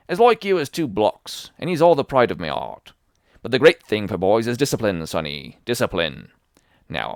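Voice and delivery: put-on loud, wheedling old sea dog; sly old sailor. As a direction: coax the boy like a fawning pirate. Black Dog voiced in the story.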